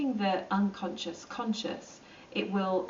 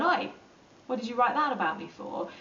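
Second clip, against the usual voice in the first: sharp high mock confrontation, Oi pitched much higher; kicking off; 4 semitones higher than usual. Imitating someone kicking off at a bully online. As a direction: call them out, half-acted. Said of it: "kicking off and going".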